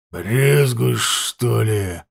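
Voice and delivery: menacing rasp from the dark; ominous hoarse voice. Acted. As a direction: rasp it out with a threat. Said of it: "зловеще прохрипел".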